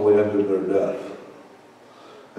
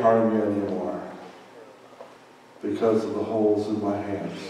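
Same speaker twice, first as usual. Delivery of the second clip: tender Jesus. Retold or imitated. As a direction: speak as a gentle saviour. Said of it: "It says".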